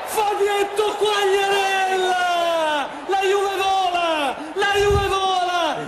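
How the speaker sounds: roaring live goal call; goal commentary shout. Acted. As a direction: yell the goal to the crowd. (telecronaca urlata del gol)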